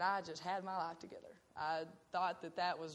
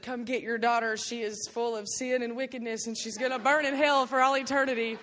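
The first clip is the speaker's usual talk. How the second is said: condemning preacher; 4 semitones higher, 10 dB louder than usual. Retold or imitated. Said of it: "The guy had called my mom and said".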